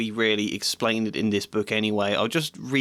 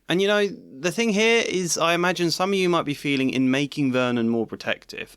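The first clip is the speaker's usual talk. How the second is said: usual speaking voice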